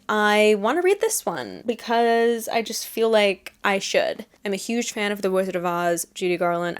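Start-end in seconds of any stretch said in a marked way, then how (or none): 4.4-6.8 a light New Jersey accent slipping in; an accidental, mild New Jersey accent. Real, not acted. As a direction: say it with a hint of New Jersey vowels. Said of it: "I said that with, like, a New Jersey accent".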